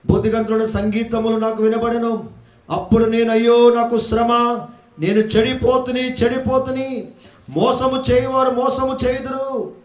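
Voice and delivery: ringing scripture declamation; preaching. Acted. Preacher declaiming a prophet's lament to the congregation, preaching. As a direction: proclaim the verse, drawing out phrase ends.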